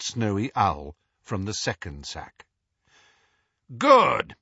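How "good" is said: Moody. A narrator's reading. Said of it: "said Moody".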